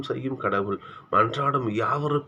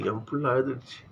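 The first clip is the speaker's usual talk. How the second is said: mother's lament; 5 dB quieter than usual. Acted. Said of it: "அந்த அம்மா பாடுகிற மாதிரி".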